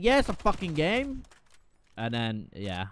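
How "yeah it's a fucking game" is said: higher, louder mock sneer; hammed-up sarcastic reply; retold retort. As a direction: toss it back like an obvious answer. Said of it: "I was like".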